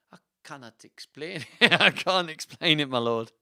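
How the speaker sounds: loud, laughing attempt at Welsh; badly faked Welsh. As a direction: give up on the Welsh accent mid-line. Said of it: "He stammered".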